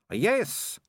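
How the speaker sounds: a proud, high "Yes"; proudly. A narrator's reading. Malicia answering Keith about fairy stories, proudly. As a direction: puff up with pride. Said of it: "said Malicia proudly".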